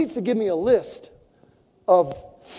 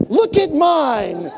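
high, slow, laughing look at mine; laughing show-off; 7 semitones higher, 6 dB louder, much slower than usual. Retold or imitated. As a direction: drag it out proudly through a laugh. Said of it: "She stood up and she said".

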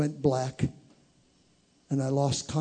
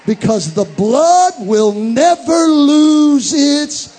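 much higher and louder, slow climax; full-force preaching; 6 semitones higher, 12 dB louder, slower than usual. Real, not acted. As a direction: lift it to a shouting peak.

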